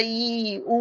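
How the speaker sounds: drawn-out ই, then উ; vowel demonstration. Shown as a demonstration. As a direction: hold ই and উ as long, steady vowels. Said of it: "এটা একদম উপরে চলে গেল". (ই আর উ টেনে উচ্চারণ)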